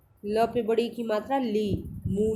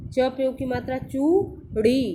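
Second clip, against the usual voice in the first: spelling drill; 2 semitones higher, 4 dB louder, slower than usual. Shown as a demonstration. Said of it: "पीछे पीछे मेरे दोहराएंगे".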